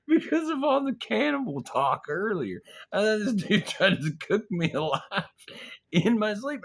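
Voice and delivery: high-pitched, worked-up rant; squeaky, incredulous outburst; frantic reasoning. Acted. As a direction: explain it in hammed-up hysteria. Acted panicked reasoning about cannibal friend.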